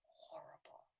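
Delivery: "horrible" whispered, nearly silent; hushed whisper. Real, not acted. Recalling the peanut danger, whispering "horrible". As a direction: breathe "horrible" with no voice at all. Repeats word hushed then aloud.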